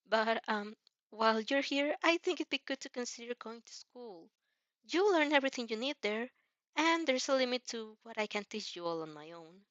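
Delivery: put-on bright, helpful young hero showing off; Izuku voice. Izuku suggesting school.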